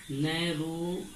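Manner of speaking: नैरोअर drawn out in two pieces, नैरो and अर; slow dictation. Shown as a demonstration. Teacher repeating the comparative for students, slow dictation. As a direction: stretch नैरोअर slowly with a gap before अर.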